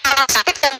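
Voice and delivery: glitchy, cutting in and out; choppy audio. Real, not acted. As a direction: voice breaking up on a bad connection. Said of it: "Suaranya patah-patah".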